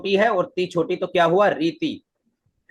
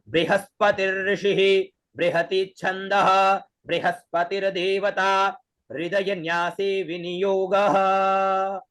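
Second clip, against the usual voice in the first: vedic recitation; 2 semitones higher, slower than usual. Shown as a demonstration. Teacher shows how to recite it, slow chant. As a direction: intone it slowly, one breath per phrase. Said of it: "कैसे?".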